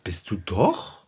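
low, soft, drawn-out retort; muted insistence. Acted. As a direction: insist slowly under your voice, rising at the end. Repeats the contradiction, backing down.

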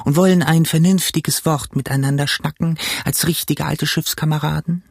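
leicht angehobene Figurenstimme; Schwarzer Hund, alter Seemann. Acted. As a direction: play the old shipmate proposing a chat. Figure's speech in narrated story. (alter Schiffskamerad)

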